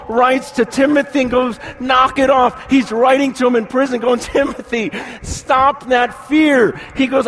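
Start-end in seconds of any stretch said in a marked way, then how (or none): 1.8-2.7 stern rebuke. Retold or imitated. Paul rebuking fearful Timothy. 4.2-6.8 stern rebuke. Retold or imitated. Paul rebuking fearful Timothy.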